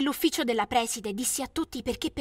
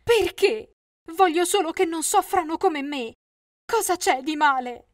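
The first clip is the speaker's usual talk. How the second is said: high, loud anguished cry; a mother wailing at the principal; mother's cry; 5 semitones higher, 6 dB louder than usual. Acted. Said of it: "la mamma urlò".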